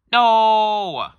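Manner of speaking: put-on high, loud little boy's shout; child's refusal. Little boy refusing to leave the mall, shouting. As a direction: shout it like a defiant kid.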